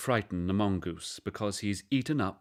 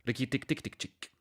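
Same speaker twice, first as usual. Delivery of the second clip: chittering mongoose war cry; a quick scratchy animal call; 3 semitones higher, 4 dB quieter than usual. A narrator's reading. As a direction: chirp it like a small animal. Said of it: "his war cry".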